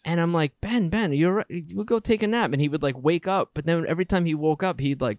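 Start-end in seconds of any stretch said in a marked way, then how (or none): 0.6-2.5 gentle coaxing. Retold or imitated. Dad coaxing sleepy son.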